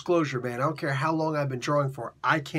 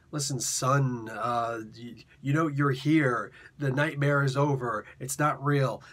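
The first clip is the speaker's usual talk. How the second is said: gentle Bruce; 2 semitones lower than usual. Retold or imitated. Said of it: "He talked differently".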